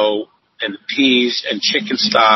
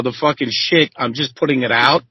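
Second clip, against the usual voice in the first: ordinary delivery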